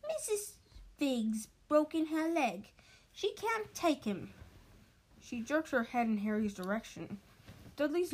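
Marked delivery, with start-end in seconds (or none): 0.1-4.3 higher, slow put-on fussy aunt voice; slow, higher prim aunt; Aunt Petunia's voice. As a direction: drag it out like an annoyed aunt. Petunia reports bad news.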